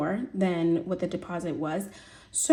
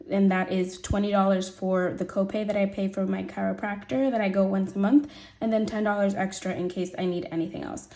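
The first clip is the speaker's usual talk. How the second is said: gravelly, slightly rough voice from being sick. Real, not acted. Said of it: "my voice sounds a little gravelly".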